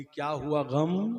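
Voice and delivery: slow, mildly annoyed question; irritated wife. Acted. Cleric's woken wife snaps back, mildly irritated. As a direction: stretch it out with mock irritation. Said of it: "बीवी झंझुआ के बोली".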